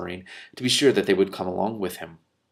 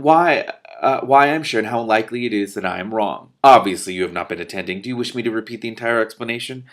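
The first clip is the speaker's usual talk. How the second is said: lofty, self-important magician voice; pompous magician; 7 dB louder than usual. Acted. Telemaine insisting to Mendenbar, lofty and pompous.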